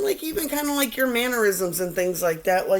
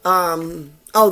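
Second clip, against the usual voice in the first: ordinary delivery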